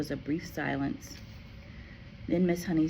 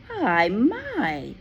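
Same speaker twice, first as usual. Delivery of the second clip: gentle teacher; 6 semitones higher, 6 dB louder than usual. Acted. Teacher greets running child.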